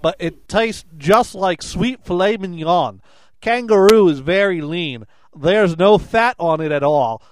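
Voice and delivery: loud, hammed-up Aussie accent read; mock Australian accent; attempted Australian accent. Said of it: "Take two".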